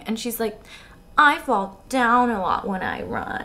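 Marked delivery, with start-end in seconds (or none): 1.2-3.4 halting confession. Acted. Acts Bella's slow confession.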